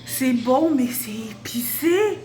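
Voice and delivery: talking through a burning mouth; words pushed out past spicy heat; mouth burning from spicy food. Real, not acted. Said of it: "Yo, j'ai la bouche en feu".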